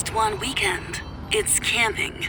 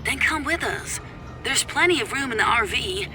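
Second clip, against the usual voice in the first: softer, filtered ex-husband on the phone; tinny phone voice; 4 semitones higher, 5 dB quieter than usual. Acted. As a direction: argue down a thin phone line. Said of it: "a tinny voice coming from my phone".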